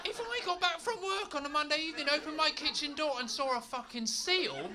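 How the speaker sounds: high, loud laughing glee; overjoyed at finding a seal at home; giddy excited rant. Acted. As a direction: gush with delight, almost shouting.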